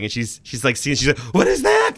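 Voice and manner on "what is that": very high, loud alarmed yelp; retold freak-out. Host retelling Debbie's reaction to the hands, freaking out. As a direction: imitate someone freaking out at the screen. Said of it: "freaking out through this whole thing".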